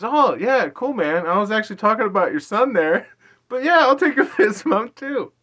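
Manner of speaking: high, upbeat mimicry with laughs breaking in; imitated driver. Acts out driver's polite, amused acceptance.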